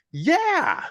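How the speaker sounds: high, loud, hollow "yeah"; a strange, high copy of dad's voice answering; eerie answering voice. Retold or imitated. Unseen double answers the toddler in dad's voice, eerie. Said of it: "And then my voice goes".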